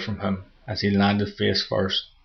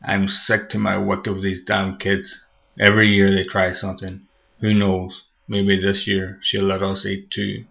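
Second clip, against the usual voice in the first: evil pumpkin voice. Acted. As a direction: grumble it like a wicked gourd. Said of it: "the pumpkin's evil voice".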